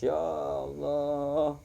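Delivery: slow, drawn-out wailing "Ya Allah" in mock grief; retold crying. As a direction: stretch the first words like a man weeping. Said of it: "Umar bin Khattab langsung nangis".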